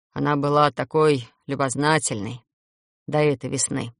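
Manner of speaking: low, subdued vampire voice; sad vampire. Acted. Vampire's low retold memory.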